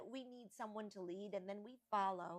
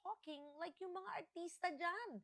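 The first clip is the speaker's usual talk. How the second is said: rising exasperation, ends loud; exasperated scolding; 10 semitones higher, 14 dB louder than usual. Retold or imitated. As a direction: scold a brother, building to a yell. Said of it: "And I'd say".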